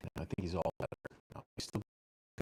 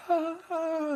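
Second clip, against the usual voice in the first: high yelping whine like a hurt dog; imitated dog whine; 7 dB louder than usual. Mimicking the hurt dog yelping in the car, high whine. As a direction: copy the dog's pained little yelps. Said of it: "whining and yelling the whole time".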